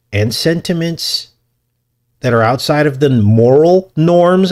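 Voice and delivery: lightly imitated politician's speech, deliberate stretched phrasing; Obama impersonation. Podcaster playing the president laying out common sense, hammy Obama impersonation. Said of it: "My Obama impersonation".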